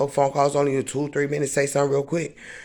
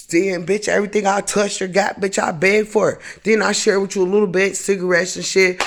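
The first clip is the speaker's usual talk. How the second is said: higher, heated rising rant; angry rant; 4 semitones higher than usual. Real, not acted. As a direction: build the anger as you vent. Venting anger at Keisha.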